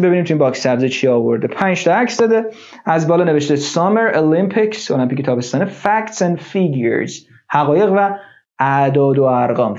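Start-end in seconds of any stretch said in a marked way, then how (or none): 5.7-7.1 slow model reading. Shown as a demonstration. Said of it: "teacher models vocabulary".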